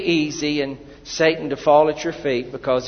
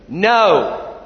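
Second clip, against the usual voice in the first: louder firm no; 3 semitones higher, 6 dB louder than usual. Shown as a demonstration. Congregation's repeated no, said firmly and louder. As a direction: say no like you mean it. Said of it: "That's pretty good".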